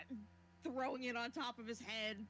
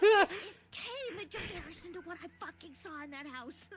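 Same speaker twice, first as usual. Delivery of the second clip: loud, laughing disbelief; 6 semitones higher, 11 dB louder than usual. Real, not acted. Laughing at the horror.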